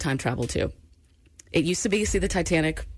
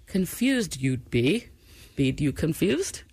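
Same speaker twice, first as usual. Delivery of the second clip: slow, lightly voiced Yoda; half-hearted Yoda impression; slower than usual.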